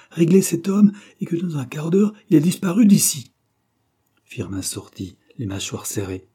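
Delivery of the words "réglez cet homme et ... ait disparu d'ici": high, loud, commanding voice; angry order. A narrator's reading. Master ordering valet to pay off chauffeur, angry command. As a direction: fire the order off at full voice.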